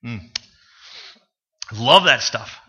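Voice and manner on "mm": dreamy hush. Real, not acted. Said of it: "My mouth is watering".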